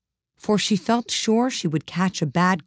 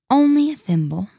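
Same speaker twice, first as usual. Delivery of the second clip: sad; 8 semitones higher, 3 dB louder than usual. A narrator's reading. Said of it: "said Alice sadly".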